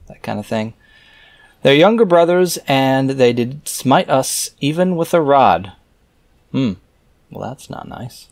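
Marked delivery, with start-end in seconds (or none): 1.6-5.7 raised, measured reading voice; scripture reading. Acted. Reader reciting scripture verses aloud in a solemn reading voice. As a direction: read the old verses out with solemn weight.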